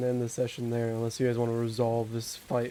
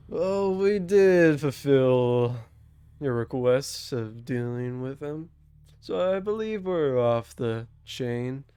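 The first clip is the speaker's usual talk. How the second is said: male succubus; 3 dB louder, much slower than usual. Acted.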